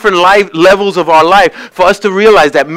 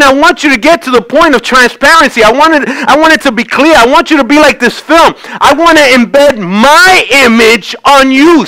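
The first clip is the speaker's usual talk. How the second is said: prophetic declaration; 5 semitones higher than usual. Acted. Speaks as the Lord, declaring.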